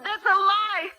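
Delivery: high, sharp denial; indignant outburst. Acted. Accused prisoner cries out at her interrogator in protest. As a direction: fling the accusation back.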